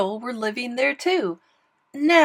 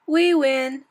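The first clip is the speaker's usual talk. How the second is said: gloating shout, higher and louder; scream; 4 semitones higher, 6 dB louder than usual. A narrator's reading. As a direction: crow the victory. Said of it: "screamed the guest".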